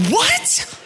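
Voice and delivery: a high, squeaky mock disbelief; shocked what. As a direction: yelp it out in disbelief. Disbelief at friend's habit.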